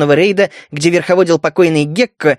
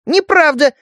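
tiny, much higher squeak; 9 semitones higher than usual. Acted. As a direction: squeak a protest. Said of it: "пискнула мышка".

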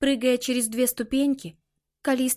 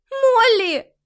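terrified high cry of a name; in horror; 12 semitones higher, 9 dB louder than usual. A narrator's reading. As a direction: scream her sister's name in panic. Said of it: "в ужасе сказала она".

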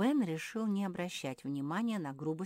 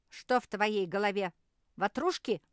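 sneering; 5 semitones higher, 7 dB louder than usual. Acted. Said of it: "ехидно осведомилась попрыгушка".

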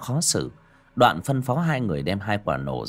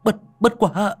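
angry reproach; 5 semitones higher, 3 dB louder than usual. Acted. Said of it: "sử dụng một chút khí lực còn lại mà trách".

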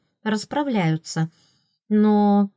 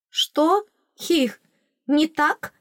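higher, giggling question; 9 semitones higher, much slower than usual. A narrator's reading. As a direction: squeak it out through a giggle. Heroine laughing, high voice. (хихикающий вопрос высоким голосом)

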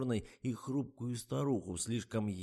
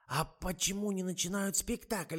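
высокий, медленный старушечий голос; ласково уговаривает, как подслеповатая старушка; болтливая старуха; 10 semitones higher than usual. A narrator's reading. (высокий тягучий голос старой актрисы)

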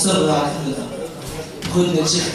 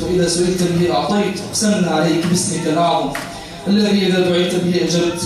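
measured, repeated pleas to God; supplication prayer. Real, not acted. Preacher leading worshippers in Ramadan supplication, prayerful. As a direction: lead a congregation in heartfelt dua.

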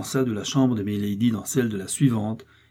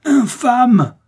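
second « Infâme! » hurlé beaucoup plus haut et fort; « Infâme! » lâché à pleine voix, au sommet de la rage; hurlement furieux; 13 semitones higher, 10 dB louder than usual. A narrator's reading. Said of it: "hurlait Milady". (Milady hurle « Infâme! » plus fort encore, hors d'elle)

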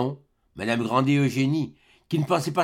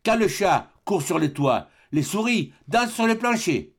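sarcastic proverb; 6 semitones higher than usual. Acted.

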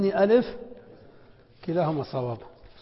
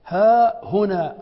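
drawn-out example words; 3 semitones higher, 6 dB louder, much slower than usual. Shown as a demonstration. Teacher to students, showing the ha very slowly. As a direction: stretch ها هنا so the ha is heard. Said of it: "ثابت، لأن اسم الإشارة مبدوء بالهاء".

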